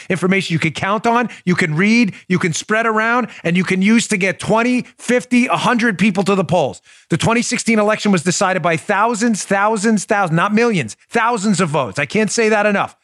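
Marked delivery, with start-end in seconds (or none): 4.4-13.0 rally speech. Real, not acted. Rising urgency about vote counts.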